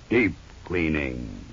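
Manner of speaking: ordinary talk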